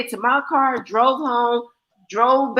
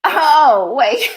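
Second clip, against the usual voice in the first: laughing shout; 5 dB louder than usual. Real, not acted. Laughing outburst.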